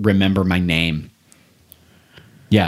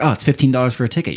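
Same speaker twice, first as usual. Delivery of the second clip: breezy seller; 4 semitones higher, much faster than usual. Retold or imitated. Ticket seller quoted.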